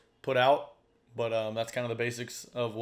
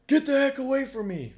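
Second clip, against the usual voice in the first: much higher, louder imitated shout; real aggressive; 14 semitones higher, 8 dB louder than usual. Stranger driving off the would-be rescuer, an imitated aggressive shout. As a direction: bark him away, hostile. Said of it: "Like, real aggressive".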